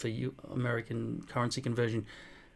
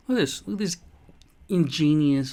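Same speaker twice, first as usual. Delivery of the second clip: high-pitched, eager show-and-tell; excited showing off; 4 semitones higher, 7 dB louder than usual. Real, not acted. Showing viewers his gadgets, with high excited pitch. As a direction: squeal with excitement over the gadgets.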